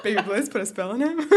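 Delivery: quoting her line through a laugh; giggling while repeating the line; laughing quote. Retold or imitated. Repeating Gabrielle's line to friends, laughing. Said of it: "I just love how she said that".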